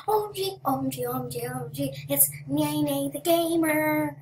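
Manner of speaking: loud, high gushing excitement; young fan shrieking at a famous gamer; squealing fangirl. Retold or imitated. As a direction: imitate an overexcited fan spotting a star. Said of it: "this person was just like".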